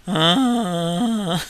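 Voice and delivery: long drawn-out "ah" moan; imitated moan. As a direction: moan it out, mimicking someone overcome. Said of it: "moaning and just going".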